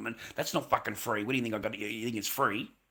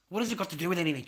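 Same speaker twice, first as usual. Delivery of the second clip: raised repeat; 5 semitones higher, 5 dB louder, much faster than usual. Retold or imitated. Repeats the question, louder.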